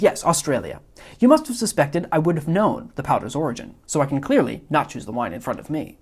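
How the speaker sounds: a hint of a fussy, self-satisfied villain; Wallace Shawn's Vizzini. Teacher reading Vizzini's lines to the class, mild smug imitation. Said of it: "mimicking Wallace Shawn's inflection".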